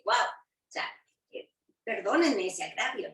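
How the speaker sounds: mock apology, a light ironic sting on perdónenme ese agravio; a touch of sarcasm, Guau breathed almost unvoiced; a bit sarcastic. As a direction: say perdónenme ese agravio as if the offense were a joke. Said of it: "Un poco sarcásticamente les dice".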